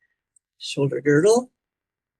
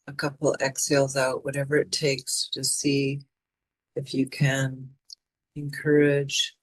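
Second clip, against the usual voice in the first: calm, even meditation voice with long pauses; guided meditation. Acted. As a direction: guide them inward, phrase by unhurried phrase. Leads a mindfulness meditation.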